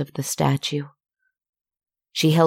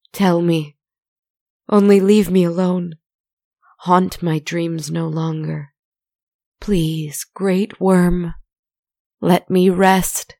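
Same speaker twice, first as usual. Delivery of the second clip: begging; 3 semitones higher than usual. Acted. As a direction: plead with the monster for mercy. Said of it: "begging, pleading".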